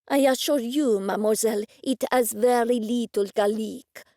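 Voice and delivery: chef's put-on French accent, lightly voiced; fake French accent. Chef answering Wendy in a faked French accent. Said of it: "that fake French accent".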